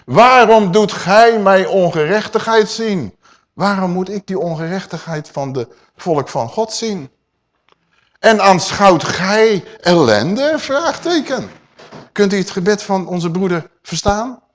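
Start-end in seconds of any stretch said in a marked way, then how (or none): 0.0-11.5 pleading cry. Acted. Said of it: "Hij schreeuwt tot vader".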